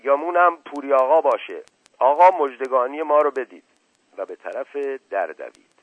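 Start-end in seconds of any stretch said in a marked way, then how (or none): 0.0-3.6 high, loud cry announcing an arrival; excited shout. A narrator's reading. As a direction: call out loudly, pitched higher. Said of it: "مشقاسم فریاد زد". (فریاد بلند و زیر برای خبر دادن)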